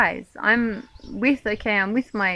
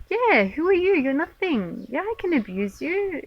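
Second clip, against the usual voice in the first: higher, mocking, scornful voice that sneers down at the speaker; a lightly voiced entitled bully; mock arrogant sneer; 6 semitones higher than usual. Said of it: "they have this, sense of".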